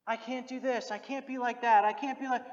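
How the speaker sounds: mock despairing believer. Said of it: "Don't look at other people and say".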